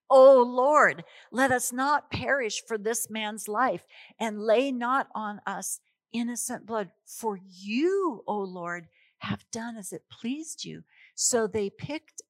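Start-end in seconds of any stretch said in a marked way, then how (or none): 0.1-10.8 desperate prayer. Acted. Mariners praying to the Lord.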